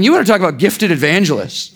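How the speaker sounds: mock admiration for a gifted preacher; deadpan sarcastic praise. Real, not acted. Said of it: "I'm being sarcastic here".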